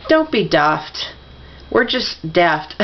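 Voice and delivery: slow, deliberate British "daft" with a short flat a; British-sounding "daft", drawn out; British accent. Acted. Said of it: "Said that like a Brit".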